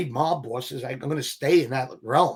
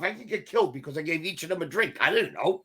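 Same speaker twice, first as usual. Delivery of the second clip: worried inner voice; 2 semitones higher, 5 dB quieter than usual. Retold or imitated. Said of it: "I'm saying to myself".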